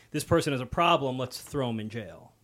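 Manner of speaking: harsh official shrugging them off; dismissive, harsh. Retold or imitated. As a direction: throw them away, blunt and cold. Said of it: "as opposed to".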